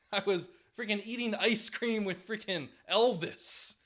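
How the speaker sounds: put-on high, laughing voice of a just-woken old ballplayer; hammed-up old man pulled from heaven; groggy Ted Williams. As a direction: whine through giggles about the dream.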